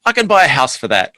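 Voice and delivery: dad's Greek-accented protest, lightly voiced. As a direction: imitate dad in a hint of Greek accent. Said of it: "In his accent".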